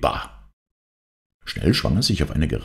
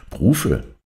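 snippy; 6 semitones higher than usual. Acted. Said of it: "antwortete Cherubim schnippisch".

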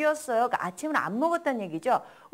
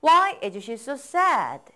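slow, even drill pace; slow model reading; much slower than usual. Shown as a demonstration. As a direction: say it slowly, leave room to repeat. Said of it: "따라 읽어보세요".

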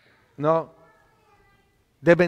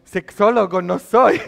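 exclaiming. Retold or imitated. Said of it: "yo digo".

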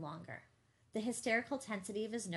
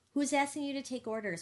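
raised voice, higher and louder; angry retort; 6 semitones higher, 6 dB louder than usual. A narrator's reading. Bigger answering Gus's defiance, loud and indignant. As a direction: throw the accusation straight back.

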